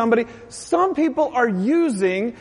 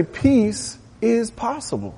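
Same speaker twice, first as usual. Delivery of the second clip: slow gentle reassurance; slower than usual. Pretend. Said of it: "And I'm gonna say".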